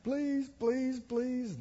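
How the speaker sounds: mild mock crying plea; begging. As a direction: beg softly with a touch of whine. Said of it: "begged and cried and cried".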